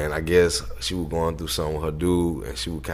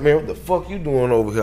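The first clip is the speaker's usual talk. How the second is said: retold hostile challenge, pitched higher; angry challenge; 7 semitones higher than usual. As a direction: imitate a man confronting an intruder. Angry man confronting the boy.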